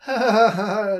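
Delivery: big loud high laugh; laughing along. A narrator's reading. Thief laughs along with the happy child, loud laughter. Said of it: "lachte der Dieb mit".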